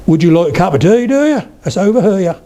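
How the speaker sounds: Suffolk lilt, leaping high on "do ya"; Suffolk accent. Shown as a demonstration. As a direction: stretch "here" into two syllables, Suffolk style.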